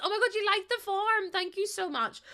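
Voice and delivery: high, loud squeal of delight; excited thanks. Real, not acted. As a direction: gush over the sub. Thrilled by a six-month sub.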